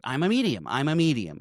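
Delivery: mock certainty, lightly acted; matter-of-fact. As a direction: imitate someone announcing an established fact. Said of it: "She says it like it's a known fact".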